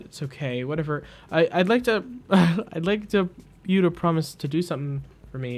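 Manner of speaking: lightly voiced hurried, stammering asker; a hint of a nervous Mechanist asking a favour; twitchy Mechanist. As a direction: trip over the request in a rush. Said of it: "There is a speedy twitchiness".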